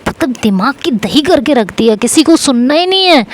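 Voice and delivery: mock him for never listening; angry yelling. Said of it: "वो ऐसे चिल्लाए जा रही होती है मेरे ऊपर".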